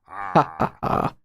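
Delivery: soft, slow, spaced ha-ha-ha; half-hearted laugh, one ha at a time; slow read-out laugh. Acted. Reads out a written laugh.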